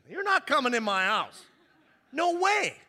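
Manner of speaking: loud, high, laughing "No way"; laughing refusal. Real, not acted. Pastor turning away the guest, laughing.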